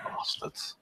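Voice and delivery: breathy whispered curse; whispered insult. Acted. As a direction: hiss it as a joke under your breath. Mock envy of sleeping mates.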